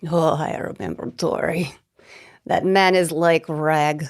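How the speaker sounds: put-on lightly accented Russian, dismissive. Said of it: "trying to do a Russian accent".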